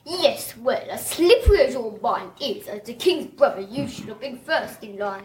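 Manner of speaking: lightly posh villain voice; a touch of posh, haughty. Shown as a demonstration. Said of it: "Go on, do your posh voice".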